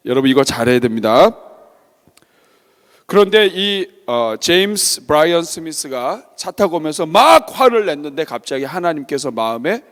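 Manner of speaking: usual speaking voice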